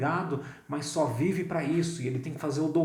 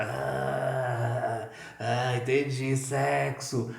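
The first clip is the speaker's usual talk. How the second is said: knowing innuendo; much slower than usual. Retold or imitated. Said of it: "Se você mudar a entonação".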